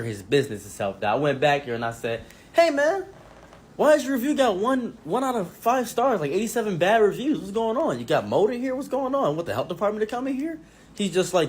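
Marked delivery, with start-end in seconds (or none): 2.5-10.6 hammed-up outraged customer; playing the irate shopper; mock angry customer. Confronting the shop owner, acted.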